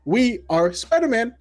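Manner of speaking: slow, high, loud, dramatic proclamation; booming trailer tagline, slowed for effect; epic movie trailer line. Shown as a demonstration. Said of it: "in my head, I heard".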